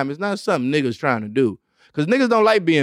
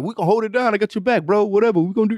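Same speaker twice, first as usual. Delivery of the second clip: mock bro promise; 5 semitones higher, faster than usual. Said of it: "niggas be like".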